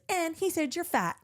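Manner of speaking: high, laughing taunt; mock the messenger kid while laughing; laughing mimic. Mimicking the schoolkid taunt, laughing high.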